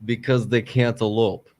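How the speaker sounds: put-on Russian accent. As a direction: deliver the joke in a Russian accent. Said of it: "the random voice".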